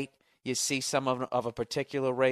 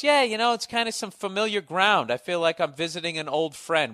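imitating snide remark; 5 semitones higher than usual. Imitating Mel's snide line.

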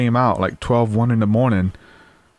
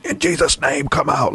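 mild mock scream; 4 semitones higher than usual. Man imitating those who prayed over him, mild mock scream. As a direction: mimic exorcists crying out, held back. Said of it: "it was as easy as not just screaming".

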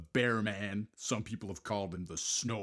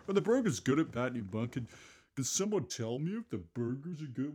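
silly put-on voice; 4 semitones higher than usual. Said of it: "Why am I doing that voice?".

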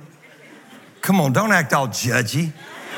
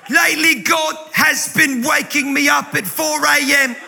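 mock a preacher like a pirate; pirate-like impersonation; 9 semitones higher, slower than usual. Pastor impersonates guest preacher Christine Kane in pirate voice. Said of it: "my Christine Kane impersonation sounds like a pirate".

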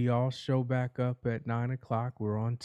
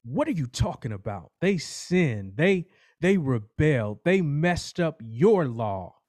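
louder, higher, rushing indignant outburst; angry judge; 4 semitones higher, 8 dB louder than usual. Acted. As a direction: fire it back in outrage, building up. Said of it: "the judge becomes angry and says".

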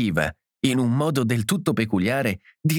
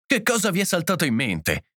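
higher-pitched, indignant outburst; exploding; 7 semitones higher than usual. A narrator's reading. John rounding on the hosts, exploding. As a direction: burst out in anger, without extra volume. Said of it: "esplose John".

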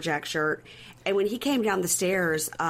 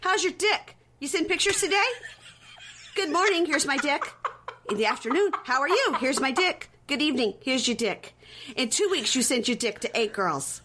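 high, singsong mocking impression; mock interrogation; 7 semitones higher than usual. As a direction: taunt him with his own greetings. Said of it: "And she goes".

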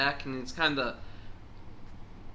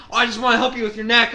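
mock helpful killer; 7 semitones higher, 10 dB louder, much faster than usual. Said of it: "He's like".

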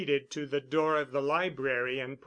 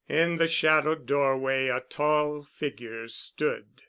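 ordinary delivery

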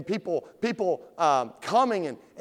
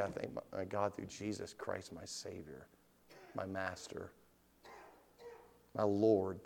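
low, very soft reverence; hushed thanks; 10 semitones lower, 11 dB quieter than usual. Acted. Sinner thanks God for his Savior, low and hushed. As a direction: drop right down into quiet gratitude. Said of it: "And then you can say".

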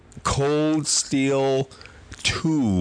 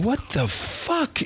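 bewildered; 11 semitones higher, much slower than usual. Retold or imitated. Retelling confusion while hallucinating.

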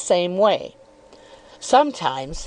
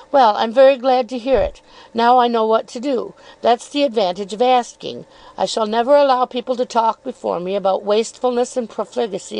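lightly raised, coyly probing voice; insinuating Miss Dartle; 2 semitones higher than usual. Acted. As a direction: feign innocence while needling.

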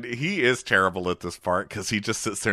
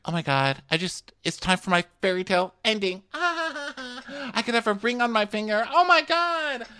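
rising higher and higher into a giddy squeal; gushing over a fairy tale ending, ever higher; mock excited gush; 14 semitones higher than usual. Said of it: "she's like".

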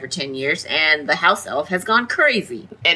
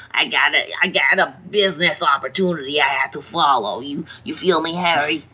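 lightly put-on shady cockney accent; a hint of a shifty cockney; Mundungus accent; 2 semitones lower than usual. Mundungus excusing himself to Harry, light cockney accent. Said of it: "I don't know why he has that accent".

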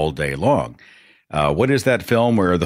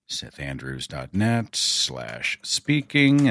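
spelled out slowly; 4 semitones lower, 4 dB quieter, much slower than usual. Real, not acted. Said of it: "that's the link you can use".

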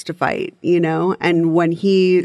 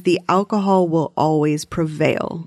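imitating a thick German accent. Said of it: "in his thick German accent".

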